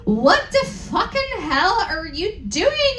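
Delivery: mild mock angry shout; a touch of a hammed-up yell. Reading the fanfic aloud, a mild mock angry shout. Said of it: "I shouted angrily".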